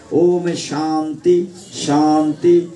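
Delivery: slow drawn-out Om shanti, rising in level; slow drawn invocation. Acted. Preacher closing the sermon with a slow drawn-out Om shanti. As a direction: intone peace slowly to close.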